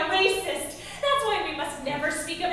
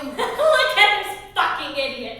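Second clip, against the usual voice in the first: mocking laugh. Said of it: "Rhonda is laughing too and pointing".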